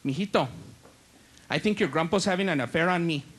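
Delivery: put-on low, subdued old grandma voice; confiding grandma. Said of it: "And my grandma".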